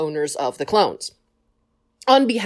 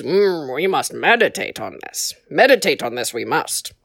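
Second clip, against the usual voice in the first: lightly voiced Yoda, a bit lower; Yoda impression; 5 semitones lower than usual. Yoda telling the council to meditate, low and musing. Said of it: "probably Yoda, goes".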